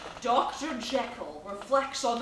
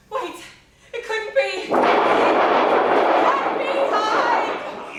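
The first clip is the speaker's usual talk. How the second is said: breathless, slow, horrified gasp of a whisper; 9 semitones higher, 8 dB louder, slower than usual. Acted. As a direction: whisper it as the terrible truth dawns. Horrified realization of the monster.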